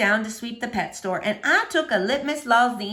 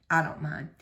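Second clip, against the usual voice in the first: low soft Otis; 8 semitones lower, 6 dB quieter than usual. A narrator's reading. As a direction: lower and softer, a lonely gentle man. Otis speaks.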